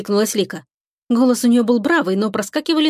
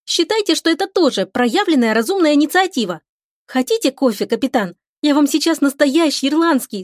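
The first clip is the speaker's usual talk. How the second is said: put-on a much higher, bubbly girl's voice; chatty young girl; 6 semitones higher than usual. Lika chatters to the captain about coffee, higher bubbly voice.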